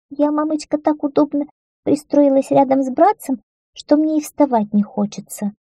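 high-pitched, lazily whining little daughter; lazy little girl. A narrator's reading. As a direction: voice a comfy girl who won't budge. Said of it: "лениво добавил третий ребёнок, девочка". (ленивый высокий голосок девочки)

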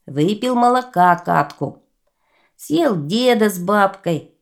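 lightly voiced whining boaster; a hint of a sulky complaint; complaining giant. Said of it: "давай ему жаловаться".

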